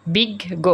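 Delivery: বিজ্ঞ said as big-go, both Gs sounded apart; deliberate বিজ্ঞ with a held double G; doubled G. Shown as a demonstration. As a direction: split বিজ্ঞ between its two Gs. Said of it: "গ দুইবার উচ্চারিত হচ্ছে".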